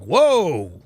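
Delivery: imitated loud, falling whoa of shock; stunned reaction. Drive-thru guy watching the fight, imitated stunned exclamation. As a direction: act out a taken-aback onlooker. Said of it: "he'd never seen anything like that before".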